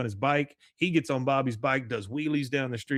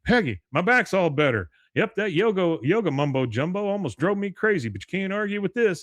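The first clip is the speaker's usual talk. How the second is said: higher, lively imitation of good news; retold elation; 6 semitones higher than usual. Hank telling Peggy his back is better, mock elated. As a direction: announce it eagerly, pitched up.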